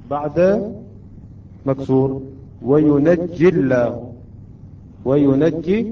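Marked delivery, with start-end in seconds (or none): 2.6-4.1 وينجي الله joined slowly, with a thin lam in الله; light lam. Shown as a demonstration. Teacher showing the lam after kasra, slow light-lam recitation. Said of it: "هنا أيضًا ترقق اللام". 5.0-5.8 وينجي on its own, ending in a long ee; still ya. Shown as a demonstration. Teacher isolating the word before the Name, ending on still ya. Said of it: "الياء هنا ماذا؟ ساكنة".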